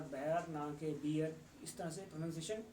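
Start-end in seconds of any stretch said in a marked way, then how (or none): 0.0-1.4 "बेर" said as one syllable, set against a wrong two-syllable "बियर"; "बेर" for BEAR, not "बियर"; correct vs wrong bear. Shown as a demonstration. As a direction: say "बेर" and then "बियर" slowly, to contrast them. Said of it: "B E A R".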